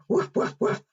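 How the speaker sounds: airy, short puffed woofs; pretend barking. Presenter in a dog mask for children, pretend barking. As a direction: bark like a playful dog.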